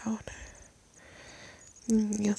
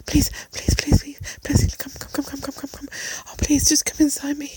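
urgent pleading; 4 semitones higher, 5 dB louder than usual. Acted.

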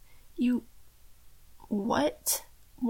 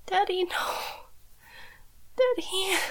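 sobbing cry; 5 semitones higher than usual. Acted. Captive cries out to father.

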